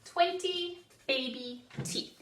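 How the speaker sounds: call and response. Shown as a demonstration. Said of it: "One more time".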